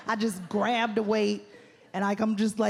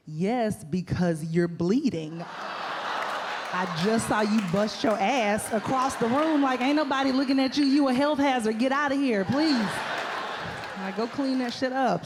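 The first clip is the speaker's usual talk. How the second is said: gym guy's voice. Retold or imitated. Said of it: "And he was like".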